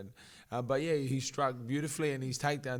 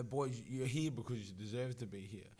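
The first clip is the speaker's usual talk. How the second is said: reassuring pep talk; 4 dB quieter than usual. Retold or imitated. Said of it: "I tell 'em".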